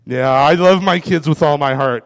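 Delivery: ordinary talk, nothing marked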